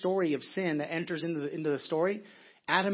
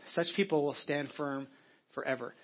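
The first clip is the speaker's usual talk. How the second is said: slow, softer repeat; 3 semitones lower, 4 dB quieter than usual. Shown as a demonstration. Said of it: "Don't miss that".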